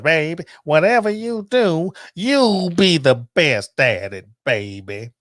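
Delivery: lightly voiced grandmother giving loving advice; a hint of a firm, fond grandma; grandmother's voice. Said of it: "I'm gonna do the voice".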